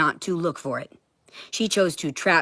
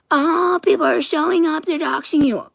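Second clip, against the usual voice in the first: much higher, louder mocking voice; mocking quote; 11 semitones higher, 5 dB louder than usual. Mocking what she told her, in a high sneering voice. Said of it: "listen to all the trash talking".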